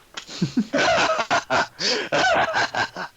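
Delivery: high burst of laughter; big laugh. Real, not acted. Reacting to the comeback.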